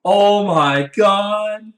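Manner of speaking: high, slow, drawn-out oh my God; ecstatic gasp. Real, not acted. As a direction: swoon over the dream. Gushing over the idea.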